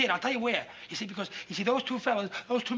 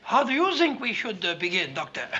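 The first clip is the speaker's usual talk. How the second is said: put-on Viennese doctor; stalling impostor with Viennese accent; fake Viennese accent; 4 semitones lower than usual. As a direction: toss the question back in a mock Viennese accent. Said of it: "Viennese will do".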